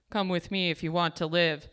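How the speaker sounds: badly faked Austrian action-hero accent; Arnold Schwarzenegger. Inner action hero shows up to rescue her, bad Schwarzenegger accent. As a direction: attempt a terrible Schwarzenegger-style accent. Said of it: "that was a terrible accent".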